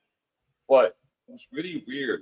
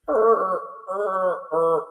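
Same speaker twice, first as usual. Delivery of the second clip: high, strained moaning "er, er, er"; imitated ghostly groan; 7 semitones higher, much slower than usual. Guest imitating the noise he heard in bed, groaning. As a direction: mimic the eerie sound heard in the dark. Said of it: "and I hear".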